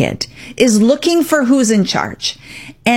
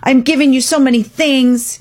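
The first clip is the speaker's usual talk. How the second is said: higher, pleading hurt tone; hurt parent; 4 semitones higher than usual. Retold or imitated. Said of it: "The parent might get hurt and say".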